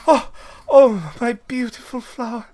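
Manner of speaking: high, loud dismay over the flower; anguished cry. Acted. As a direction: wail over her precious bloom. NPC dismayed at spraying flower.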